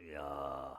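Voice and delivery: deep, very soft, very low, hushed pious intoning. Illustrating showy holiness, saying 주여 in a lowered deep voice. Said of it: "목소리 딱 깔고".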